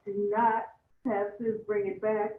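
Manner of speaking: measured, spaced-out plea; deliberate pace for the captioner; keeping it slow. Real, not acted. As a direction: plead slowly, phrase by phrase. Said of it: "keep it slow for the captioner".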